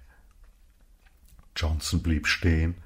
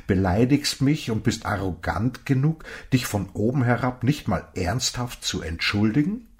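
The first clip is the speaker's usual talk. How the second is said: raised, louder rebuke, a touch of real anger; indignant old man; 5 semitones higher, 4 dB louder than usual. Acted. Old man scolds Johnson for calling him old, heated. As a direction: scold him like a stranger who was insulted.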